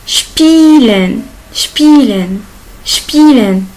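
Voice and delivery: "Spielen" with sh before p, long i, shpeelen; sh-p German sp. Shown as a demonstration. Teacher drills learners on Spielen with German sh. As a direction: hit the sh in "Spielen", stretch the ie. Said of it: "Il se prononce ship".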